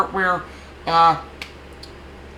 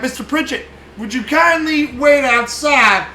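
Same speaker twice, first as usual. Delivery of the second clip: mock politeness; 7 semitones higher, 5 dB louder than usual. Mock-polite before kicking body out.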